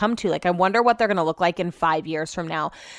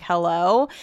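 low, questioning retold hello; puzzled phone greeting; 4 semitones lower than usual. Retelling answering her watch, tentative questioning hello. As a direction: answer an unknown call tentatively. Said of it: "And so I'm like".

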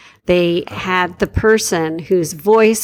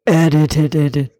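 dropped low and spliced-in; lowest voice; 5 semitones lower than usual. Pretend. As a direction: sound as low as you can. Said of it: "say it in the lowest voice I can".

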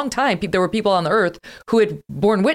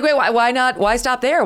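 mock incredulous; 9 semitones higher, 3 dB louder than usual. Dad mocking son's sea salt joke.

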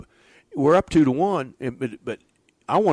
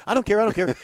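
loud exasperation; 11 semitones higher, 5 dB louder, faster than usual. Retold or imitated. Coach echoing the argument.

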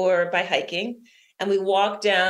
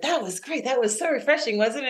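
lightly imitated delight, pitched higher; retold cheering; 5 semitones higher than usual. Swimmers finishing the third loop, mildly imitated cheer. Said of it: "they're all cheering".

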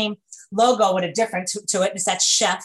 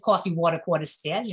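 New York accent on Coffee, water; 3 semitones lower than usual. Shown as a demonstration. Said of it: "as you can tell from my accent".

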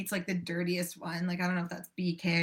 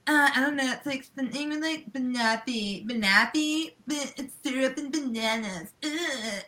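mocking teens; 4 semitones higher than usual. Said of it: "And then they're like".

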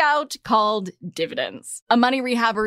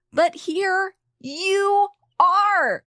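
slow, high and tender; 9 semitones higher, much slower than usual. Real, not acted. Tender turn to listeners.

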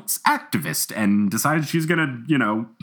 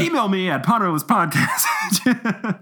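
sultry voice; 7 semitones higher, slower than usual. Pretend. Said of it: "listen to my sultry voice".

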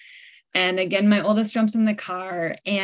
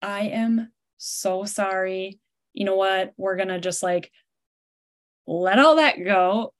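sincere apology. Retold or imitated. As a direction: gently make amends, taking it slowly. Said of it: "backpedal and be like".

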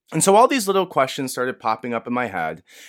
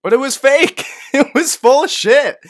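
high, loud, laughing burst of disbelief; laughing outburst; 13 semitones higher, 9 dB louder than usual. Real, not acted. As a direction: blurt it out laughing at being fooled. Laughing disbelief at fake video.

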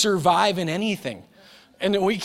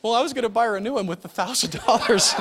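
put-on matter-of-fact kid; 5 semitones higher than usual. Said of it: "she goes".

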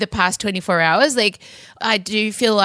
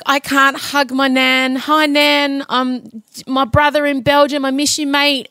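put-on light New Zealand accent, slightly higher voice; 5 semitones higher than usual. Voicing a New Zealand ad's homesick people, light New Zealand accent. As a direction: lightly imitate New Zealanders greeting missed family. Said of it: "in that beautiful New Zealand accent".

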